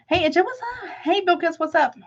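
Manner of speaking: high singsong hello; sung-up greeting to a viewer; 1 playful high greeting. Real, not acted. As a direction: call out the name brightly up high. Greeting chat names playfully.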